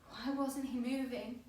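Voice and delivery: distressed. Acted. Trapped fan beside a motionless lad, distressed. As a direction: push it out with mounting alarm.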